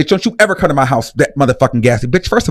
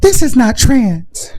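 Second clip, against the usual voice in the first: whisper; 8 semitones higher, slower than usual. Acted. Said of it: "whispering and moaning".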